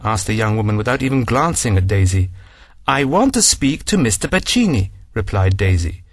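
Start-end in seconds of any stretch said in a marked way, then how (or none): 2.9-4.9 firm, pressing on want; aggressive demand. Acted. Daisy demanding to see Bacini, aggressive and firm. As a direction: insist through set teeth. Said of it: "becoming even more aggressive".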